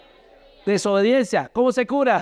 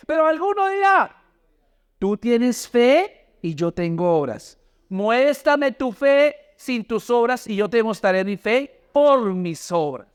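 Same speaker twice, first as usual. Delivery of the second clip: slow, raised, deliberate Bible reading; scripture read-aloud; 3 semitones higher, slower than usual. Real, not acted. Preacher leading the congregation through Santiago, slow scripture reading. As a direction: read it out slowly for a congregation to follow.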